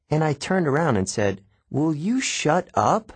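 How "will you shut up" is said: higher and slowed, snapping at a snickering classmate; outburst louder than meant. Acted. Boy turns on a snickering classmate, loud outburst. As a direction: let it burst out louder than intended. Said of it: "It came out louder than I meant it to".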